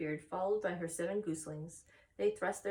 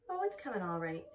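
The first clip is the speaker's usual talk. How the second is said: lightly. Acted. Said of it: "she said lightly".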